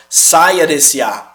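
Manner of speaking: slow down and lean on Saia; stressed, slow. Shown as a demonstration. Teacher insisting that the i separate. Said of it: "eu quero que esse I se separe".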